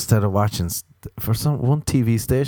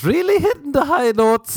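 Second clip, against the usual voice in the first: laughing, louder and higher; 4 dB louder than usual. Real, not acted. Comic after taking a call mid-podcast, laughing loud. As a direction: laugh it out at yourself.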